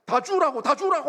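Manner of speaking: high, loud demand; retold shouting. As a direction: re-enact yelling an order at someone. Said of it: "막 소리 지르고 막 그랬어요". (흥분해서 소리 지르듯)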